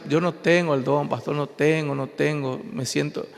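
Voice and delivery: softly imitating a sad believer, fading; a touch of tearful complaint, not real crying; mild retold distress. Believer tells the pastor he lacks the gift, mildly sad and softening. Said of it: "se sienten afligidos y tristes y llorando".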